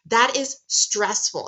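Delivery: ordinary delivery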